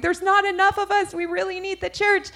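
very high, loud urgent squeal; high-pitched exclamation of being swamped; overwhelmed plea. Retold or imitated. Retold overwhelmed cry for help.

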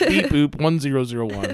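mock robot beeping, laughing. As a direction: beep it out like a toy robot. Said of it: "I'm a robot".

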